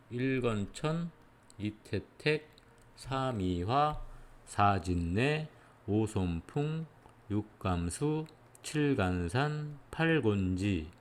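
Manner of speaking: slow, measured recitation with drawn-out syllables. Shown as a demonstration. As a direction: recite each three-syllable name as its own slow beat. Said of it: "이렇게 읽어야지". (한 박자씩 길게 끌며 읊기)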